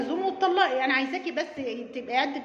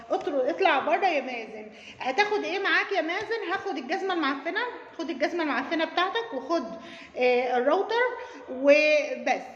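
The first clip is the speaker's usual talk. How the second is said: mocking through laughter. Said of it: "mock scene, laughing".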